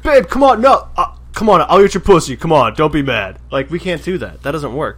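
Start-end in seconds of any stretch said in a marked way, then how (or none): 0.0-3.4 high, loud pleading; pleading boyfriend. Retold or imitated. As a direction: beg your girlfriend not to be mad. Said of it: "Todd was like".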